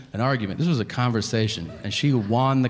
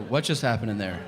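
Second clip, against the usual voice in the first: clueless husband. Retold or imitated. Husband back to alarmed wife, mildly clueless. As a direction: ask it evenly, as if nothing happened. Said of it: "And I go".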